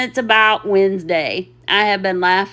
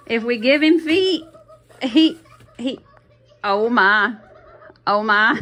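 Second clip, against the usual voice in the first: trying to talk but giggling; words breaking up into laughter; laughing. Real, not acted. Vlogger losing it over the feet, laughing. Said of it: "I'm still dying laughing".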